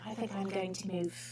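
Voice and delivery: lightly attempted British accent; put-on British accent. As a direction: slip playfully into a mild British accent. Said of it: "I wasn't gonna do accents".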